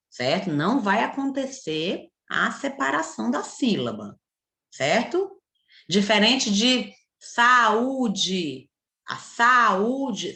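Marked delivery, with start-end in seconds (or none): 5.9-10.4 very slow, careful explanation; slow stress. Shown as a demonstration. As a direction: spell it out slowly for children. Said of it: "são duas vogais". (bem devagar, explicando)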